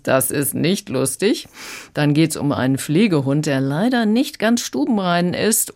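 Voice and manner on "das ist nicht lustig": slow, dry official tone; a hint of a stern policeman; police officer. Critic quoting the police, lightly stern and slow. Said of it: "Diesmal sagt die dann allerdings".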